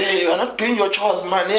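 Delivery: high-pitched mock shout of an exasperated mother; high, nagging retold scolding. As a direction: imitate a mum telling off her child. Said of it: "used to shout at me".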